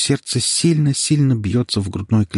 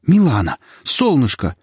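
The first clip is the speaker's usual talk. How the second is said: joyful cry; 5 semitones higher, 4 dB louder than usual. Acted. Husband finds her in basement.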